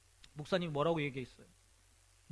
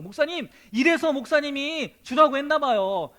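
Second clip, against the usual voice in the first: delighted; 7 semitones higher, 9 dB louder than usual. Acted. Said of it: "너무 좋다고".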